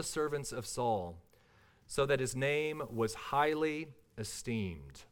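measured, solemn Bible reading; scripture reading. Acted. Preacher reading the passage to the congregation, solemn and measured. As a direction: read the passage with reverent care.

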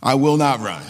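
laughing repeat. Shown as a demonstration. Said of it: "just say out loud".

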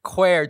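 "Queer." echoed loudly in his friend's way, close to "kwair"; mock "queer". Teasing his friend over how he says "queer". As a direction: copy his friend's "Queer" so it rhymes with square. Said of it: "I do say queer quite a lot".

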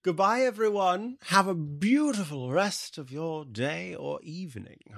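mock-elegant unplaced accent; lightly put-on fancy accent farewell; a hint of an unplaced upper-crust accent; unplaced posh accent. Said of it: "I don't know what this accent is".

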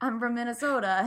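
imitated Minnesota accent with a long O; playful Minnesotan lilt on the long O. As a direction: quote it in a light Minnesota accent. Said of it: "she says it in the accent".

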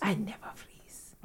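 very soft, slow whisper; whispered imitation. Repeating a friend's movie quote back, whispered. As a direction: echo the line in a slow whisper.

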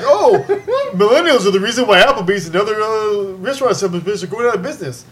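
mock article voice. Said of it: "they were like".

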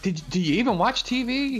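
pitchy mock yelling. Jerry going off at Larry King, pitchy mock yell. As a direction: imitate Seinfeld's high, indignant outburst. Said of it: "he starts yelling at Larry King".

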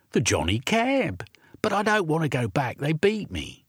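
put-on a runaway boy who won't go back; frightened urchin boy.

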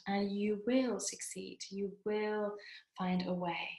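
kind inner CEO. Retold or imitated. Inner CEO comforting Nancy after a failure, soft and tender. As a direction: speak gently as your own supportive boss. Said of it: "here's what she has to say".

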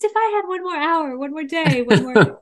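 desperate plea. Retold or imitated. Mimicking a last-minute plea.

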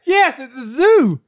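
high, slow emphatic retort; heated comeback. Real, not acted. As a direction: fire back in mock exasperation, drawn out. Heated comic argument back.

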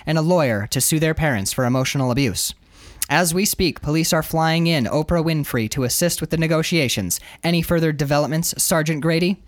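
measured live news report voice; TV reporter read. Acted. Reporter outside a hostage situation, on-camera news read. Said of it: "she's reading into the camera".

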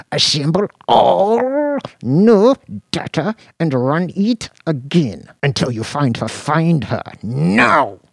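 high, loud screamed order; screaming. A narrator's reading. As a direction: scream the command. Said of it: "realized that he was screaming".

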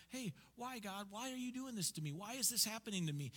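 high, pleading why-me voice; playing people moaning at God; whiny complaint to God. A person whining at God in prayer, high and pleading.

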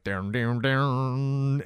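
imitated showdown music, sung out in drawn notes; spaghetti western sting. Recapper mimicking last-showdown music, drawn-out vocal sting. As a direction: mimic a western's twanging score. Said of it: "those spaghetti westerns".

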